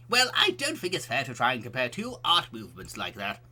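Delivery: a hint of a lecturing old man; lightly voiced old man. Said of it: "the old man voice".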